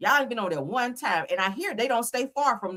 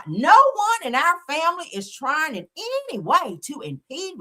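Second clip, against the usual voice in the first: prim, higher-pitched mock Becky, lightly done; 5 semitones higher than usual. Mocking the judge's statement in a mock Becky voice. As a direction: read it like a smug prissy lady. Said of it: "I gotta say it in my Becky voice".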